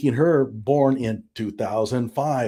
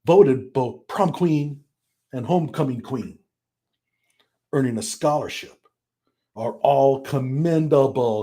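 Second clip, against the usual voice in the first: lightly imitated short-burst reading; short emphatic bursts. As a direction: read in little punched bursts. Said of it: "little short bursts where every sentence is emphasized".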